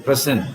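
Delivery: "present" with a strong PRE, quick fall; stress on first syllable. Shown as a demonstration. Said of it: "The stress is on the".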